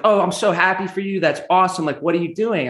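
a hint of a delighted mother; imitating mom. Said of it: "My mom's like".

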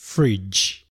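"Fridge" said clearly and falling, a model to repeat; teacher prompting kids to repeat "Fridge"; English word demo. Shown as a demonstration. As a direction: model "Fridge" for the children to echo. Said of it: "もう一度冷蔵庫を英語で言ってみましょう".

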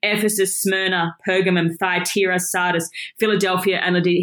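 lightly voiced, grave command listing the churches; commanding heavenly voice. The voice from heaven sending the message to the churches, lightly voiced and solemn. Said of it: "I'm gonna try and do the voice".

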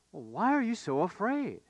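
calm, unhurried gentle question; quite calm. Acted. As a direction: ask it mildly, as if nothing were wrong. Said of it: "he says quite calmly".

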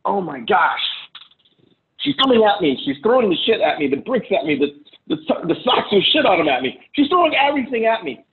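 overwhelmed husband protesting, hammed up a little; mock alarm. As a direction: play-act being under attack. Acts out the defensive husband's reaction.

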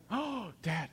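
put-on high-pitched little kid protest; mock dismayed child. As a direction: imitate a small boy's dismay at dad. Child protests puppy threat.

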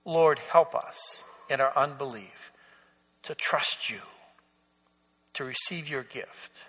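hushed sermon-ending prayer; closing prayer. Acted. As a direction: pray it humbly, letting the voice sink away. Pastor leads closing prayer.

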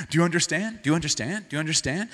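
repeated quick checking question, rising each time; nagging parent. Retold or imitated. Pastor mocking himself nagging his children, rising question. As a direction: pester the kids until they nod. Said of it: "someone told me that's bad".

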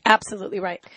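throaty, getting over a cold; hoarse from a cold. Real, not acted. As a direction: speak through a sore throat. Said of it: "I've been choking so much".

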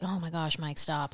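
wife brushing off her husband, mildly eye-rolling. Retold or imitated. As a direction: brush him off with a roll of the eyes. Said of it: "Like, roll my eyes".

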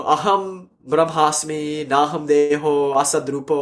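slow, drawn-out Sanskrit recital; stretched syllables on a level pitch; mock recitation. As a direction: intone it like learned formulas. Recites learned Vedanta formulas.

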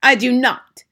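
loud, high, indignant denial; outraged witch shout. A narrator's reading. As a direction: bellow it back in offence. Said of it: "shouted the Grand High Witch".

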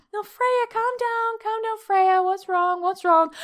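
high-pitched retold fretting at the dog; anxious pleading. Scared owner tries to calm her barking dog, anxious pleading.

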